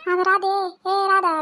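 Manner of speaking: drawn-out, slow call. Acted. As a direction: call Radha by name, stretching it out. Calling Radha from across the house. (लांबवून हाक मारत)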